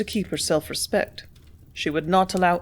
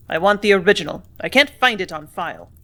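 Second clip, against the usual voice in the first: curt, louder demand; snapped; 5 dB louder than usual. Acted. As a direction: snap it out impatiently, louder. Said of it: "snapped Mayberry".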